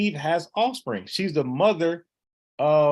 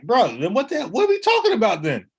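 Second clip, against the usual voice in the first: raised, louder incredulous outburst; exasperated reaction; 7 semitones higher, 6 dB louder than usual. Retold or imitated. Debater reacting to an opponent having no thought, exasperated. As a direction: retell it loud and high, baffled by the answer.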